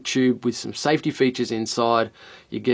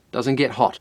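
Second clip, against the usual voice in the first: normal talking voice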